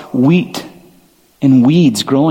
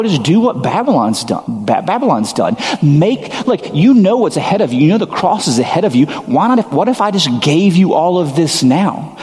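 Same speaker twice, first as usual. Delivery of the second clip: devil tempting; 3 semitones higher than usual. Retold or imitated. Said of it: "the devil's basically like".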